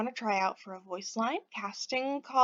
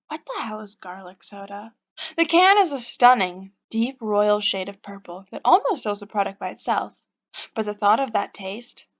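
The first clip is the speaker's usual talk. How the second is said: story narration. A narrator's reading. Reads the game's narration aloud.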